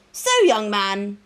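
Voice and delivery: put-on "So, young man" slow and lilting; sing-song tone. A narrator's reading. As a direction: draw out "So, young man" in a playful lilt. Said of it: "in a sing-song tone".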